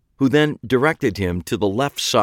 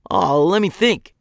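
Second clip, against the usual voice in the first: eager; 9 semitones higher, 3 dB louder than usual. A narrator's reading. Eager kid perks up.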